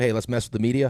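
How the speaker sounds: ordinary talk, nothing marked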